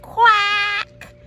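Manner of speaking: loud happy quack; a duckling's first real quack; duckling finally quacking; proud quack. Acted. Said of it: "he went".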